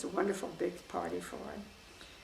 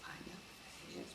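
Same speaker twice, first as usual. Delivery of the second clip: soft insistence; 16 dB quieter, much faster than usual. Retold or imitated. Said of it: "he couldn't hear me very well".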